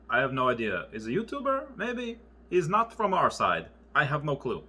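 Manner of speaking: light imitation of a Russian accent. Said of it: "a Russian accent like that".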